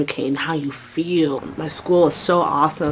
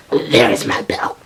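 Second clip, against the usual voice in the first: slow, hushed discovery; stunned whisper; 7 semitones lower, much slower than usual. Retold or imitated. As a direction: whisper it slowly, drawing out each word.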